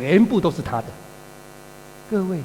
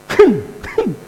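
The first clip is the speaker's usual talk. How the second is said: angry humph; 12 semitones higher, 7 dB louder than usual. Retold or imitated. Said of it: "哦，怎么哼？".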